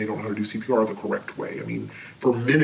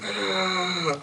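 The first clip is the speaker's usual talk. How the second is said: retold scream; 7 semitones higher, 3 dB quieter than usual. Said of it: "He was screaming".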